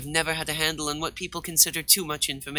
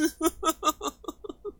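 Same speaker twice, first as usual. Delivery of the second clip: high theatrical laugh; 13 semitones higher, 5 dB quieter than usual. Acted. Laugh after impression.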